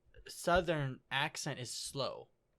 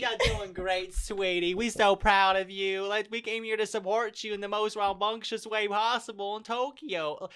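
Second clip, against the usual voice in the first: loud, higher-pitched mock country drawl; country accent; 6 semitones higher, 6 dB louder than usual. Country family cheering on Megami in Tokyo, exaggerated country accent. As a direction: gush in an exaggerated hick accent. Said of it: "I'm gonna give you a country accent".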